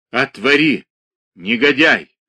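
suffocating man's cry; hoarse shout. A narrator's reading. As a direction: gasp out a shout. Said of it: "крикнул он сиплым голосом".

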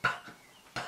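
bare P burst, no vowel; just pop "P" with no vowel; pure P sound. Shown as a demonstration. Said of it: "Qual é o som do P?". (P puro, sem vogal)

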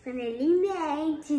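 muffled behind a hand; talking through covered mouth; hand over mouth. Real, not acted. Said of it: "Tira a mão da boca".

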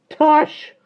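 very high, loud squawk; loud croaky parrot. A narrator's reading. Parrot umbrella scoffing from inside the room, loud croak. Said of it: "said a loud, croaky voice".

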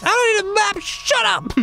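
high, shrill-free petulant shout; whiny yell. Retold or imitated. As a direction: yell it like a bratty kid. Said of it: "And you're like".

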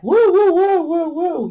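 high, loud run of woos; startled man crying out, exaggerated; imitated alarmed whoa. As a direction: burst out high, then ease off. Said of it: "he's like".

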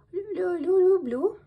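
high, loud frightened stutter; stammering in fear. Acted. Scared hare stammers his answer to the wolf. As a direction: stutter out the word, terrified.

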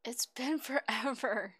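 breathy whispered giggle, slow; whispered laugh. Real, not acted. Laughs at long wait.

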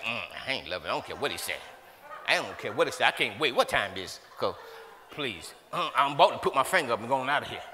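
lightly mock someone who wants to leave; mock bored churchgoer. Preacher mimicking a bored member who wants to leave.

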